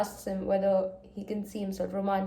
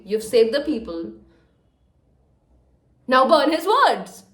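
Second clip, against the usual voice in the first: louder, scolding a fictional character; exasperated scolding; 5 dB louder than usual. Real, not acted. Reader scolding Iris to burn the letters, exasperated. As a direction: tell her off like a friend.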